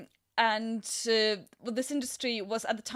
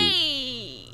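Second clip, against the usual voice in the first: put-on Yiddish accent; 2 semitones higher, 5 dB louder than usual. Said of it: "that's a terrible Jew voice".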